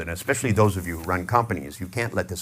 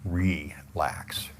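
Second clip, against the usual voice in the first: relax; 2 semitones lower, 6 dB quieter than usual. Shown as a demonstration. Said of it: "And drag the word out".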